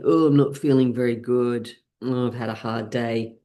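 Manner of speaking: droopy, defeated sigh of "not feeling very good"; mopey slumped voice. Shown as a demonstration. Teacher shows a slumped posture, mock mopey. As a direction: sag into it like a bad day. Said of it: "if I'm kind of like this".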